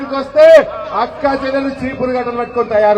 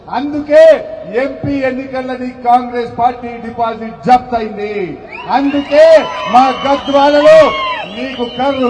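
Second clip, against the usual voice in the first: rising from firm to a full shout, louder by the end; table-pounding challenge; 4 dB louder than usual. Retold or imitated. MLA confronting Revanth Reddy in the assembly, building to a shout. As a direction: bang the table and call him out, building to a roar. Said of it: "బల్ల గుద్ది అసెంబ్లీలో మేము గట్టిగా మాట్లాడడానికి".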